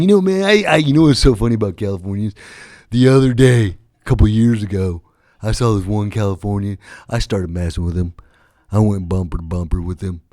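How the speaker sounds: swagger like a cop swapping road stories; mock Oregon cop. An imagined Oregon cop brags to buddies, a hint of redneck swagger.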